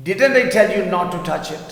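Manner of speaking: teacher models the sentence slowly. Shown as a demonstration. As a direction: read slowly with emphasis on I. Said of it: "میں نے کہا تھا نا اسے ہاتھ مت لگانا".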